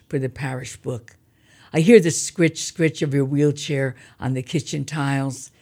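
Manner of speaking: measured, careful poetry reading; poem reading. Acted. Reads her poem aloud.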